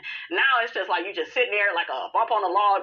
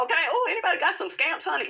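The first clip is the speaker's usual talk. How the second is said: high-pitched character voice; 7 semitones higher than usual. Pretend.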